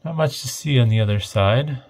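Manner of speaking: normal talking voice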